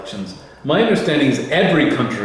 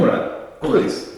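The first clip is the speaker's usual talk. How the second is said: slow, higher, whispered Russian "Comrade, please."; Russian accent; 7 semitones higher, 3 dB quieter, slower than usual. Pretend. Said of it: "if I ever have to do a Russian accent".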